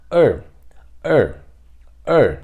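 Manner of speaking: "er" as one short, forceful syllable; brisk, emphatic "er"; quick, strong tone. Shown as a demonstration. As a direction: hit "er" quickly and firmly. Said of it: "Você vai ler ele rápido, forte".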